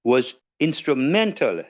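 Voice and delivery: stately podium address; formal tribute speech. Acted. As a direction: deliver a solemn tribute, phrase by phrase. Delivers formal written tribute speech.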